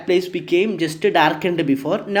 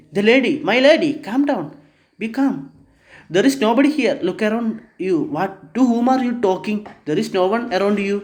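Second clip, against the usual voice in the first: higher, hurried soothing servant; calming the lady; 4 semitones higher, much faster than usual. Acted. Butler and housekeeper reassure the frightened duchess, higher and soothing. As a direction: coax her down, a bit higher and quicker.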